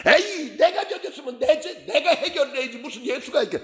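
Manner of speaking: high, indignant mock protest; argumentative skeptic. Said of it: "요렇게 따진다니까". (따지듯 높은 목소리로)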